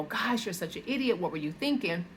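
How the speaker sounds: quick, scornful self-scolding; aggressive self-talk. Retold or imitated. Woman after messing up, scolding herself, quick and scornful. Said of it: "speak to yourself aggressively and go".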